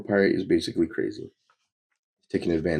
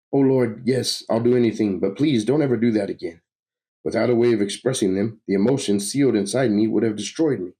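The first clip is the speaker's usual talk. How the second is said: slightly raised, pleading voice; desperate underling; 5 semitones higher, 3 dB louder than usual. Acted. Victim promises to obey the villain, pleading. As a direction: beg with a touch of panic.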